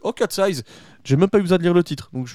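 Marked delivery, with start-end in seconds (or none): 0.0-0.6 delighted recognition. Retold or imitated. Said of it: "je fais".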